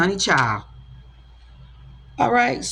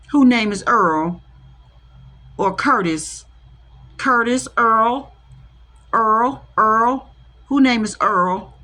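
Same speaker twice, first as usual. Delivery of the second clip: calling out; 4 dB louder, slower than usual. Real, not acted. Calling out the name Earl.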